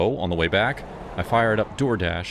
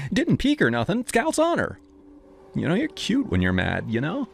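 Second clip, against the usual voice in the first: higher, sleazy grinning voice; creepy delivery guy; 12 semitones higher than usual. Acted. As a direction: play him smug and off-kilter.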